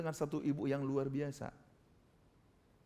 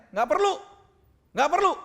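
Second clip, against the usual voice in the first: loud, high retort; acted-out angry yell; angry refusal; 12 semitones higher, 11 dB louder than usual. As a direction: imitate a sick person yelling the visitor away. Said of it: "Dia marah-marah di situ".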